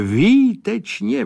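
rapturous exclamation climbing up; výtečně soaring high with a rise; elated cry. Acted. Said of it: "volal Sládek".

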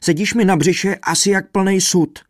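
high, loud, aggrieved moan; wailed complaint. A narrator's reading. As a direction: wail under a heavy weight. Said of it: "zakvílil trumpeťák".

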